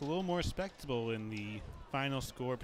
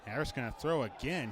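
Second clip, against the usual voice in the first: ordinary talk, nothing marked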